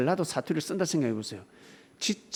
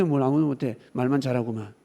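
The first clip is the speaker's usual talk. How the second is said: ordinary delivery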